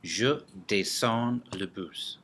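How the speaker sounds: slow, clear teacher model sentence. Shown as a demonstration. Teacher modelling a French example sentence slowly for students. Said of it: "For example".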